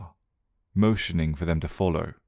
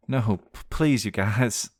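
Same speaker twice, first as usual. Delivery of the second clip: slow, stammering plea; begging; 4 semitones higher than usual. Acted. Sandra begging her friends, slow and pleading. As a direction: beg the group to stop. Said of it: "Sandra begged".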